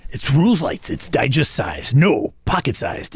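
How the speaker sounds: salesy pitchman hype. Acted. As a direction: sell it like an infomercial host. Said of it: "You gotta put Pitchman voice".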